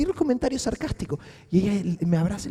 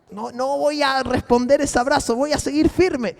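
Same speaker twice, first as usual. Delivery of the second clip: firm soldier; 4 semitones higher than usual. Retold or imitated.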